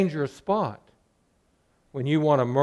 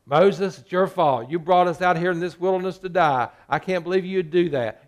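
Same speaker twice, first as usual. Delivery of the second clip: mock complaint; 3 dB louder than usual. Israelites blaming Moses.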